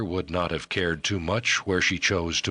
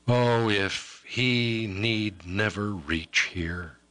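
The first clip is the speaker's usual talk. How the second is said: a lightly higher, sorrowful woman's voice; tearful young woman; 4 semitones higher than usual. Acted. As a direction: grieve over the bargain, slowing to a wish.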